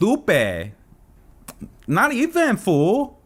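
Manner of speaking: put-on very high, swooping, sing-song Valley girl voice. Explaining how a valley girl really talks, doing a valley girl voice. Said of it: "she talks like this".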